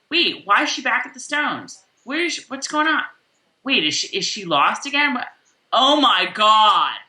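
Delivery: hammed-up confusion; mock bewilderment. Podcaster imitating a viewer who hasn't read the books, mock bewildered. Acting a confused non-reader's reaction.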